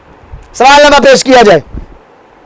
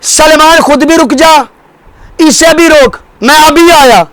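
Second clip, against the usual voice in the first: higher voice calling out from another room; calling from inside; 4 semitones higher than usual. Retold or imitated. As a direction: call through the closed door. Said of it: "مولا نے وہیں سے آواز دی".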